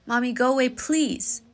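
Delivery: mother imitating her two-year-old softening the demand, sweetly; sweet toddler plea. Mother retelling her toddler's polite request, high and sweet. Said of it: "she changed it to".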